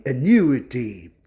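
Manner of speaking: "annuity" slowly, stressed on the NU; antepenultimate stress. Shown as a demonstration. Teacher giving English after Portuguese, slow "annuity" stressed on NU. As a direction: stretch "annuity", landing on the third syllable from the end. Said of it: "De proparoxítonos".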